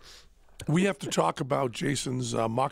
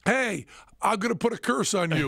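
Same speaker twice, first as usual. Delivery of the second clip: hammed-up curse, higher and laughing; mock curse; 7 semitones higher, 3 dB louder than usual. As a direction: cast a silly curse through laughter.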